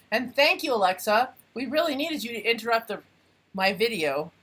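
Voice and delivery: dry sarcastic thanks. Real, not acted. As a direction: thank the device with mock gratitude. Scolding Alexa for interrupting.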